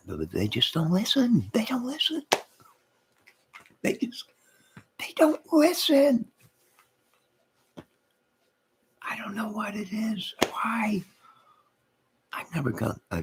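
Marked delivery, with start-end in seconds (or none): 1.5-2.2 hushed, breathy whisper of exasperation; voiceless whisper, giving up. Real, not acted. Repeats line in a whisper. 3.8-11.0 strained, exasperated whisper; voiceless whisper of disbelief. Real, not acted.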